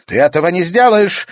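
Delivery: loud, high shout; sudden shout. A narrator's reading. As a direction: yell it out at once. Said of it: "вдруг крикнула графиня Шадурская".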